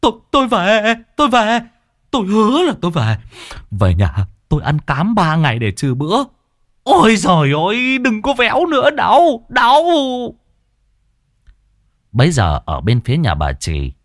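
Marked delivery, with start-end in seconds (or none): 0.0-6.2 high, fast stammering husband; high pleading stammer; yelping promise. A narrator's reading. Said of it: "kêu oai oái". 6.8-9.8 high, loud ouch cries; high pained yelps; yelping in pain. A narrator's reading. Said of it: "kêu oai oái".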